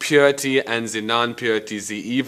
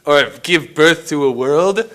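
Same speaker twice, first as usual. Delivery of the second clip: heated rant; 6 semitones higher, 6 dB louder than usual. Acted. Heated rant against church.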